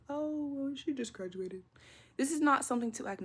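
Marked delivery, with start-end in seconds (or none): 0.1-1.6 dismissive. Retold or imitated. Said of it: "not something that should be looked over".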